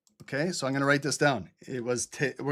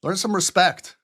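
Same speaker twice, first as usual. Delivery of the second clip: stern scold; 4 semitones higher, 4 dB louder than usual. Real, not acted. Scolding viewer.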